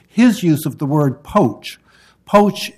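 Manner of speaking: pointed emphasis on "poach", with a pause before repeating it; stress on poach. Real, not acted. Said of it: "what I want to bring your attention to".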